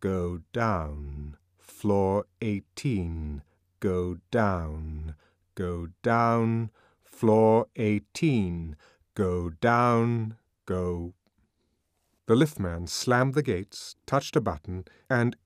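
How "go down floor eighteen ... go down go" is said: quiet, commanding loudspeaker voice; soft, level loudspeaker announcement; soft imperious command. Acted. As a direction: issue the order softly but firmly. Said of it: "very softly and yet very imperiously".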